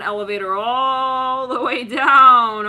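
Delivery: loud, slow, stretched-out call; drawn-out announcement. Acted. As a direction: stretch 'all' and 'down' like a long descent. Announces the long descent.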